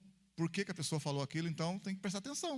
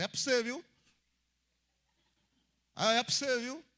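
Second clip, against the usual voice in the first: higher, mock pointed call to someone else; raised-pitch imitation of deflecting; passing it on; 5 semitones higher, 4 dB louder than usual. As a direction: toss the message over to the next person. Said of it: "ele pega assim e joga pro outro".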